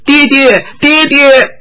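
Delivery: high frightened calls of papa; high cry for father. Acted. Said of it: "高声喊叫".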